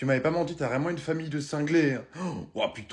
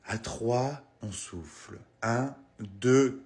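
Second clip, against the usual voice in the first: calm relaxation teacher; slower than usual. Acted. Teacher leads children in a relaxation lesson, slow soothing voice. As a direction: guide the kids gently into calm.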